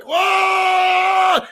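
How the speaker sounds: excited whoa. Retold or imitated. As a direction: let it ring out like the room shook. Earthquake at the countdown.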